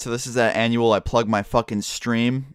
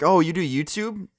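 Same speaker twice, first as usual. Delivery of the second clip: higher, lightly put-on kid voice; a curious teen asking, pitched up; 6 semitones higher than usual. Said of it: "He's like".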